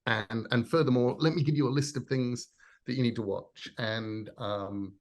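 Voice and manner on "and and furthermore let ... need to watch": louder, keen pitch to a newcomer; eager know-it-all. Retold or imitated. Telling someone who missed it what to watch, excited. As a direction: pounce gleefully on their ignorance. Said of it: "that's a wonderful opportunity to say to them".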